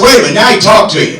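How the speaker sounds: quick, laughing disbelief; a laughing, half-shouted wait-a-minute; incredulous. Retold or imitated. Incredulous reply to Paul's brag.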